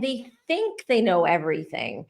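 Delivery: "think" picked out with strong emphasis; stress on THINK. Real, not acted. Podcast host on overconfident commenters, stressing "think". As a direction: lean hard on "think". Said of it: "I'm emphasizing the word think".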